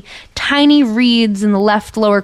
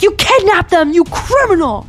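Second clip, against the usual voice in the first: outraged accusation; 9 semitones higher than usual. Acted. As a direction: hurl it at her as an accusation. Luo Ji accuses the official.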